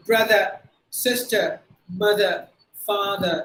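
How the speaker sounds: "sister" and "father" ending in uh; no final r in "brother", "mother"; silent final R. Shown as a demonstration. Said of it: "that's how we have to pronounce".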